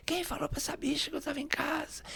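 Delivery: high-pitched retold yell, kept soft; mock screaming. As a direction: imitate a woman yelling from inside, voice held back. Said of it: "ela começou a gritar lá dentro".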